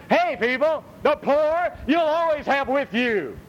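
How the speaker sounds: high, slow, solemn voice of Jesus; voicing Jesus. Preacher voices Jesus telling people about the poor, solemn and slow. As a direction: intone the words as Jesus would. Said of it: "that's why Jesus said".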